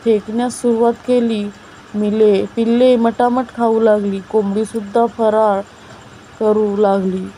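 measured, clearly projected storytelling; story narration. A narrator's reading. Narrator reading a mother-and-children tale to young listeners, measured storytelling. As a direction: read it out phrase by phrase, with pauses.

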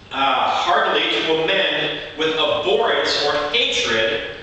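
projected, steady sermon delivery; preaching. Real, not acted. Preacher teaches the congregation about repentance, preaching. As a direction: preach it firmly to the whole room. Preaches on Greek word's meaning.

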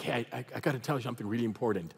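hushed, low and quick; imitated confidential tone. Friend phones with something important, mock hushed urgency. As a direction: play someone sharing a secret by phone.

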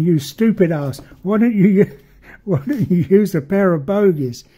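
half-laughing mock scolding; mock shouting. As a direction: imitate indignant modelers yelling at you. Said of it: "screaming and shouting at me".

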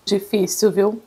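chewing while talking; speaking between chews; mouth full. Real, not acted. Seen 1: Bit sandwich at -1.0; lips pressed, mouth working through labelled words.

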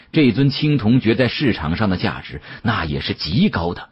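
plain reading voice

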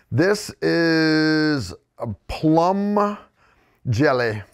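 slow, drawn-out mock French accent; redneck French accent. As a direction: stretch it in put-on redneck French. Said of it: "redneck French accent that I can pull off".

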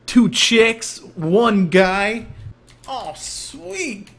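mock excitement. Exclaims in game.

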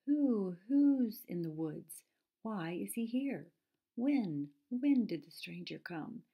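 high, loud owl hoot on the question words. A narrator's reading. Owl questioning who the stranger in the woods is, hooting. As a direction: draw out each opening word like a hooting owl. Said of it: "asked the owl of many questions".

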